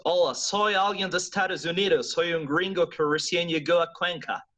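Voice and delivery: Spanish with a heavy American accent; gringo accent. Shown as a demonstration. Teacher introducing himself as American newcomer, gringo accent. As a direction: greet them as a newly arrived gringo. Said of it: "voy a hacer un poquito más".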